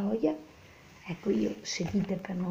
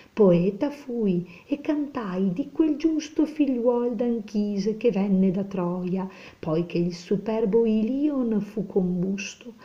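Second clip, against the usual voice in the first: slow, solemn reading of the verse; slow poem recitation; slower than usual. Acted. Teacher reciting Dante to students, slow and solemn. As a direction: draw each word out like an epic.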